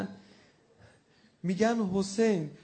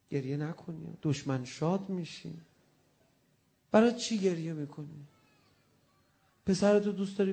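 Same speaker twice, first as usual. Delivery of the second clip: tender consoling plea. Acted. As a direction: comfort him gently, almost in a whisper. Consoling Hussein in the lament. (التماس آرام و مهربان)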